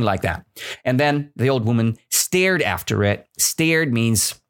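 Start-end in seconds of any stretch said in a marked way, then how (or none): none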